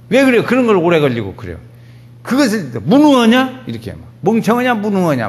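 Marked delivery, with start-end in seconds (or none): 0.1-1.6 impatient scolding. Retold or imitated. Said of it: "부목사님들도 막 혼내고 그럽니다". 2.2-3.6 high-pitched re-enacted rebuke; scolding. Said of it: "막 이렇게 야단친다". 4.2-5.3 re-enacted rebuke, high at the start; scolding. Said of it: "막 이렇게 야단친다".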